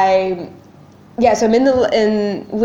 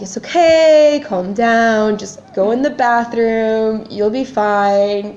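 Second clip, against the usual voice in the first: slow, drawn-out soothing; reassuring; much slower than usual. Retold or imitated. Partner calming a panicking patient on the phone, reassuring. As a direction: imitate someone talking down a panicker.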